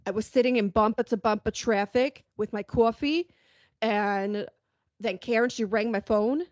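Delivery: put-on thick Long Island accent, New York vowels. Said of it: "great Long Island accent going".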